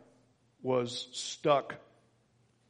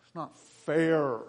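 whiny pout. Shown as a demonstration. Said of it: "Mope is ... a little bit of whiny".

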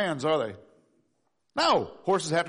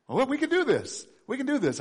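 put-on kid's voice; 8 semitones higher than usual. Kids voiced, high pitch.

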